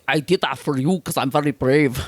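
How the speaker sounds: put-on Scottish movie-hero voice; Sean Connery. Actor to Lana after disarming gunman, mock heroic impression. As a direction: boast as a mock suave hero. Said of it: "And Sean Connery is".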